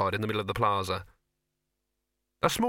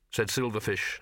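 plain reading voice

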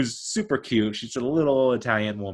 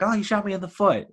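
higher, hammed-up whine about the foot; mock whiny victim; 10 semitones higher than usual. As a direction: play the shot guy as a big baby. Mocking the shot victim's cry.

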